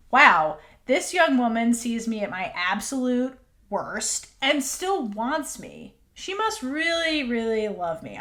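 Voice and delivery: slow, drawn-out wonder, mildly acted; awed realisation. Voicing Big Nung's point of view, slowly awed. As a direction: voice a dawning, amazed realisation.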